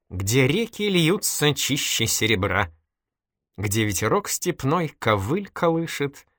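very slow, measured verse recitation; reciting poetry. A narrator's reading. Man quotes Tolstoy's poem to a girl, slow recitation. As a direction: quote the poem by heart, lingering on each line. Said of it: "И он процитировал наизусть".

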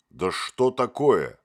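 sharp, loud, slow nervous interruption; nervous outburst. A narrator's reading. Motylyok cuts the doll off nervously, loud. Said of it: "нервно перебил его Мотылёк".

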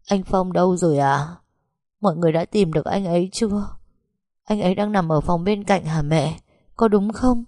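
rising, quickening questions to mother; anxious questions. Acted. Daughter just waking, anxiously asking mother about husband. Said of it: "đã hỏi liền mấy câu".

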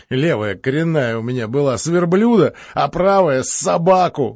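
lively, boastful count voice; a hint of a boastful count. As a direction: brag like a merry Moscow count. The speaker's boastful character voice.

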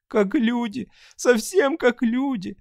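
high, tearful voice, slow at the end; sobbing. Acted. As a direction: sob it out in wonder. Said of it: "всхлипывала она". (сквозь слёзы, высоко)

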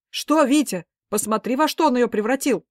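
high, loud exasperated retort; heated retort. A narrator's reading. Father arguing with wife, loud exasperated. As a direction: argue back hotly.

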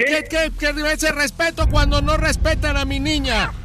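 angry. Acted. Angry prank call to father.

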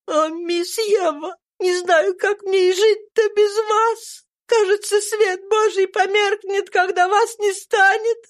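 put-on high, pleading old nurse's voice, slowed, a touch of weeping; a nurse who cannot bear the loss, lightly tearful; mild sob. A narrator's reading. Devoted nurse Mammy weeps over her dying girl, mildly tearful. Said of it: "рыдала преданная Мами".

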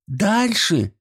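high call from the window; girl's high shout. A narrator's reading. Schoolgirl shouts directions to the teacher, high. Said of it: "крикнула Даша".

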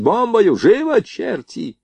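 high, stretched commander's shout; ringing, urgent order; loud command. A narrator's reading. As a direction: urge the gun crew on. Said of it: "громко скомандовал он".

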